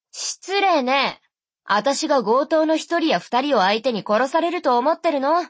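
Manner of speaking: offended sister. Acted. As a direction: huff at the insult, then brush it off. Sister voiced on phone.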